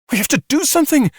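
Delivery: high, urgent shout. A narrator's reading. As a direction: shout it in desperation. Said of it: "Red shouted".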